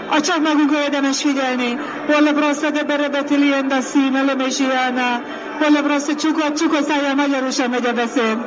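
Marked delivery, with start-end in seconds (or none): 2.2-6.2 rhythmic prayer in tongues; speaking in tongues. Acted. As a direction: pour out flowing tongues prayer. (nyelveken imádkozás)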